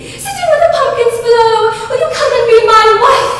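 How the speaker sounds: high, fast, loud sing-song English reading; lilting English storybook chant; English nurse reading verse. Acted. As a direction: croon the rhyme like an English nanny. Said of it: "said the young Bonnie Bear".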